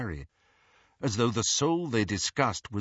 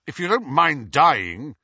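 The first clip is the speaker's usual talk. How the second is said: louder, rough challenge; rough, sharp; 6 semitones higher, 9 dB louder than usual. Acted. Snape pushing back at Dumbledore, roughly and loudly. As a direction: push back hard, words almost thrown. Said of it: "said Snape roughly".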